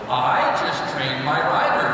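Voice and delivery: lightly voiced horse, pleased with itself; smug horse voice. Instructor voices the horse gloating over its rider, slow smug. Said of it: "And the horse goes".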